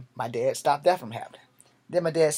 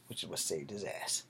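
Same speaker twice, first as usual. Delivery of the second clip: a soft whispered aside, lower in pitch; 8 semitones lower, 9 dB quieter than usual. Real, not acted. The teller slips the audience a whispered aside. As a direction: let the listener in on it with a whisper.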